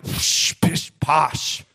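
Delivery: scoffing, puffed-out pooh-pooh; dismissive Mister Beaver. Acted. Mister Beaver brushing off Lucy's worry, dismissive. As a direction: wave the worry away with airy scorn. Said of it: "Mister Beaver's like".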